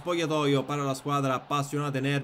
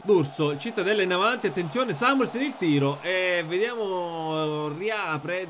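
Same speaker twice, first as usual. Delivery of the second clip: excited commentary; 4 semitones higher, 3 dB louder than usual. Acted. Live match commentary burst.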